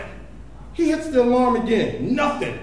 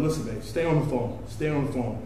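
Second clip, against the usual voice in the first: low and softer, urgent; hushed tense; 9 semitones lower, 8 dB quieter than usual. Retold or imitated. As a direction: keep her on the line under pressure. Tense hushed in front of police.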